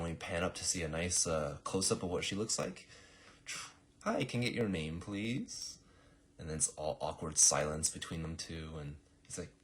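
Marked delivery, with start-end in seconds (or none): 4.0-5.8 slightly higher, lightly voiced polite girl; polite receptionist. Girl with clipboard to assassin, lightly acted polite request. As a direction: ask with a lifted, courteous ending.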